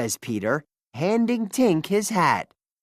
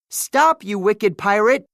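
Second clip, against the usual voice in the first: high, loud cry to stop him; girl yells at the pirate stealing her book; yelling; 4 semitones higher, 5 dB louder than usual. Acted. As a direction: shout to stop the thief. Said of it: "yells Wendy".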